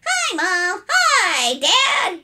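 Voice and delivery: put-on high, loud boyish greeting; cheerful. A narrator's reading. Boy greeting his parents at breakfast, loudly cheerful. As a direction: burst in with a bouncy hello. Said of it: "he said cheerfully".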